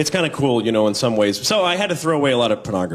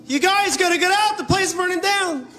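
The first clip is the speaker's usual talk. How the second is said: much higher, odd strained shout; mismatched face guy. Pretend. Man warning people of fire, high mock shout. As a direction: shout the alarm in a strange high voice. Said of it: "a guy who doesn't know how to match his face to what he's saying".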